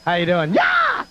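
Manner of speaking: ragged screamed-out voice; hoarse cry. Shown as a demonstration. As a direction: rasp it out like a wrecked throat. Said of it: "Like this. You watch".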